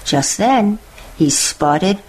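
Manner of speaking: put-on lively read-aloud for children, savouring each list; storybook narration. A narrator's reading. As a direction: tell it like a bedtime picture book.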